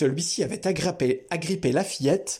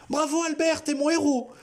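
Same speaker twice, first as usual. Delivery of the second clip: whispered; 13 semitones higher than usual. A narrator's reading. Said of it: "lui chuchota Memouna".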